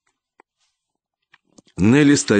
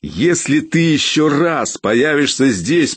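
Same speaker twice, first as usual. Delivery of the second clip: higher, slow yelled warning; threatening shout; shouting after him; 6 semitones higher, slower than usual. A narrator's reading. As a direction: lean over the railing and yell. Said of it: "прокричал я вслед".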